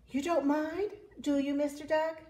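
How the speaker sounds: high-pitched, cheeky Cow voice; breezy Cow. Acted. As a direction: toss it off lightly in a high voice. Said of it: "said Cow as she plowed past".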